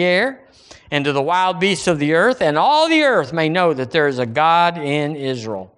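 declaimed verse settling to a measured close; scripture reading. Acted. Preacher reading David's answer to Goliath, declaimed scripture. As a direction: proclaim it, then bring it down deliberately.

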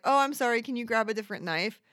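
polite Subway customer apologising; apologetic request. Retold or imitated. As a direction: apologise too much, rushing it. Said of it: "I'm like".

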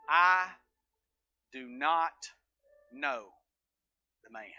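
Peter drags out the denial, sinking to a hush; slow fading denial. Acted. Peter to the accuser, slow hushed denial.

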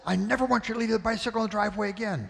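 fast scolding; mock angry command. Father laying down the law about the bike, fast and stern. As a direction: fire it off as a final warning.

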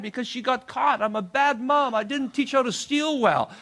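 high, exasperated mother imitation; mad mother. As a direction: whine in mock frustration as the mother. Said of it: "The mother was so mad".

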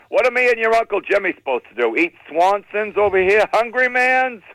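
high, indignant complaint climbing at the end; mock outrage of an aggrieved aunt; aunt yelling. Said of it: "she's yelling at me on the phone".

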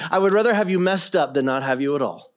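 acting a father settling his child; retold fatherly reassurance. Father embracing his upset son, retold reassurance.

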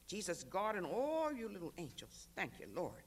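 a choked, tearful thank-you to heaven; choked-up prayer. Acted. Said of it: "She choked up".

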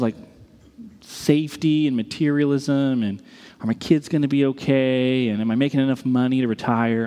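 low, subdued retelling of a friend; downcast confession. Retold or imitated. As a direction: confess it heavily, pitch dropped.

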